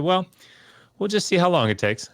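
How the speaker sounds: high-pitched, amused retelling of a friend's tease; imitated chuckle. Brilliant friend teasing the new evangelical student, chuckling. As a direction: relay his teasing with a light chuckle. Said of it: "he kinda chuckled".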